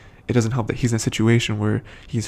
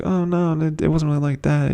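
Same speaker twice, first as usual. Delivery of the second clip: retold reassurance; 5 semitones higher than usual. Voices her reassuring the listener.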